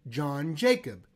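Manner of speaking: John Jacob said slowly, each syllable clear; over enunciating. Shown as a demonstration. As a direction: carefully spell out John Jacob. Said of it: "We say".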